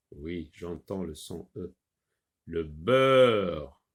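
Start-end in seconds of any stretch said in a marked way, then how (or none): 2.5-3.8 beurre said slowly with a clear open eu; careful reading. Shown as a demonstration. Teacher reading le beurre slowly to the child. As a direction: read le beurre slowly, stressing the eu in beurre. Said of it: "Le be, be, be, B avec E".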